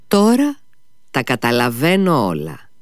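light-bulb moment on Τώρα; sudden realization. Acted. Ο υπάλληλος καταλαβαίνει ξαφνικά. (ξαφνική συνειδητοποίηση)

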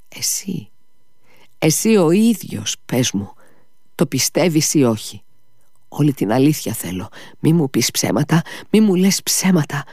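high, pleading cry building up; desperate shout. Acted. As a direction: demand the truth, rising to a cry. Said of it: "του φώναξε".

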